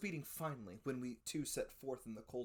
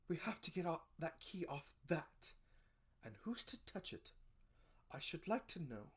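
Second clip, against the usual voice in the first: tearful; 5 semitones higher than usual. A narrator's reading. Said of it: "she gave a kind of sob".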